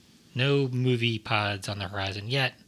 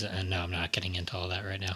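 whispering; 4 semitones lower, 8 dB quieter than usual. Real, not acted. Whispered aside to the guests.

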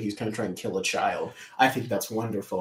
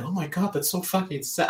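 mild mock heartbroken whine, pitched higher; imitating heartbroken friend; 7 semitones higher than usual. Imitating heartbroken friend after watching the film. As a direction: raise the voice like a sad friend. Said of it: "She was like".

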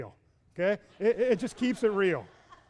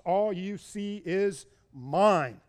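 smug possessive; much slower than usual. Retold or imitated. Laban's possessive claim.

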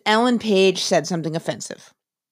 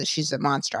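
low, soft retold statement; confiding verdict; 4 semitones lower, 7 dB quieter than usual. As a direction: drop it low and quiet, like damning gossip. Retold gossip, grave verdict.

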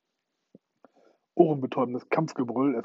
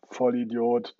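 louder, a booming insult; thundering; 5 dB louder, slower than usual. Acted. Hook thunders at Smee, a loud furious insult. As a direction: bark the insult like a furious captain. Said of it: "donnerte Hook".

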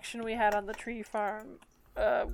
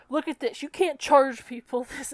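mild retold anger; 3 semitones higher, 5 dB louder than usual. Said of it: "and he said".

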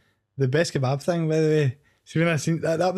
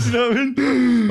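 laughing; 7 semitones higher, 5 dB louder than usual. Real, not acted. Laughing at the kebab story.

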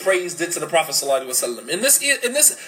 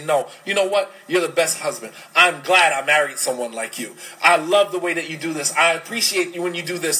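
spouse's reassurance; 3 semitones lower than usual. Retold or imitated. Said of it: "the other person to step in and say".

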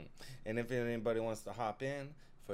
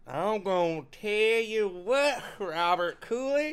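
drawn-out and loud, much higher; slow loud exclamation; 10 semitones higher, 11 dB louder, slower than usual. Real, not acted. Friend on stream, drawn-out loud exclamation. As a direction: call out the name like a big reveal. Emphatic shout about Cooley.

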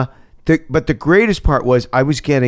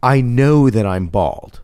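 pointedly; 3 semitones lower than usual. Retold or imitated. Actor signalling baldness to the casting room, pointedly. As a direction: make each statement land, deliberately. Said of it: "very, uh, pointedly".

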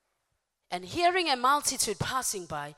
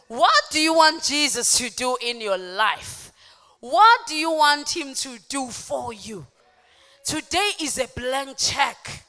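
loud, declaring sermon voice; full-force preaching; 4 semitones higher, 12 dB louder than usual. Real, not acted. Preacher announcing Jesus to the congregation, full-force preaching. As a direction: proclaim it loudly to the church.

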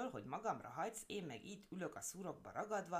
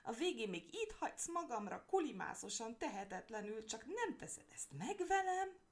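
loud wailing lament; 10 semitones higher, 4 dB louder than usual. Acted. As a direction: wail it like a hammed-up victim. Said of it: "nagy jajveszékelésbe fogott".

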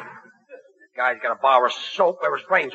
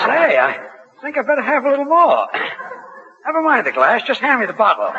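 tipsy; 8 semitones higher than usual. Acted. Getting tipsy on cough medicine.

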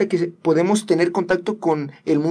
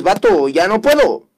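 desperate plea; 3 semitones higher, 4 dB louder than usual. Retold or imitated. Voicing Pili's desperate prayer.

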